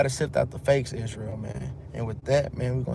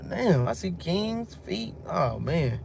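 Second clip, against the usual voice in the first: caught-out king; 4 semitones higher, slower than usual. Retold or imitated. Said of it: "He was like".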